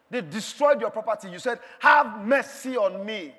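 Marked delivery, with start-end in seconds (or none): 1.8-3.3 loud, drawn-out cry; insistent plea for mercy. Acted. Believer calling to the Lord despite losses, insistent plea. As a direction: cry out slowly, refusing to be silenced.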